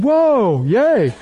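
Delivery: high, delighted little cheer; joyful cheer. Acted. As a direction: cheer like a delighted new believer. Acting out new converts rejoicing.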